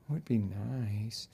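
soft, slow and half-hearted; limp wish. Shown as a demonstration. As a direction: shrug it off without any drive.

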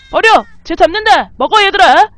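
high, loud calls to the cubs; shouting at the cubs to eat; excited shouting. Real, not acted. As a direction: cheer the cubs on loudly. Urging cubs during hunt.

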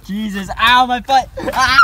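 pained yelling stumble; tripping and falling. Real, not acted. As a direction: yell as you trip and hurt. Hurts foot tripping down.

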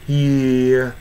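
"ひー" held long, then a light "a"; slight final a. Shown as a demonstration. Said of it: "もし最後にあというのが".

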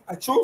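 soft mock sneeze into the elbow; a small pretend achoo; demo sneeze. Shown as a demonstration. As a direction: act out a quiet sneeze. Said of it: "lo hace".

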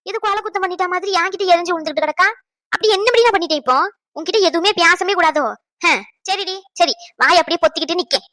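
hurt, indignant tirade; worked-up, aggrieved complaining; indignant scolding. Acted. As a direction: protest crossly at being snapped at. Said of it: "ஏன் கத்திக்கிட்டு இருக்கீங்க".

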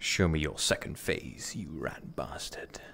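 hushed, slow taunting whisper; real whispered taunt. Real, not acted. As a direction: breathe the insult low. Taunting enemy under breath.

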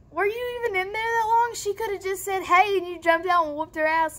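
high, quick disbelieving question; retold exasperated arguing; incredulous challenge. Arguing with sister in retelling.

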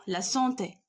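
سونتي with a short final é; سونتي ending without any lengthening; short final vowel. Shown as a demonstration. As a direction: keep the end of سونتي brief. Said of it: "كيكون النطق شوية قصير".

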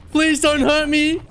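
high, slow begging; mock pleading. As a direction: beg the monster for mercy. Pleading to monster in game.

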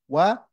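وأنا broken up syllable by syllable, short na; wa, a, na in وأنا, each short and apart; not long. Shown as a demonstration. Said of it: "not long".

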